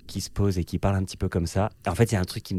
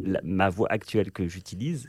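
relaxed lower voice; 2 semitones lower, 6 dB quieter than usual. Shown as a demonstration. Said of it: "j'ai cette voix-là".

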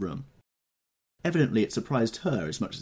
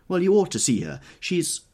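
bright insistence; 10 semitones higher, 8 dB louder than usual. Acted.

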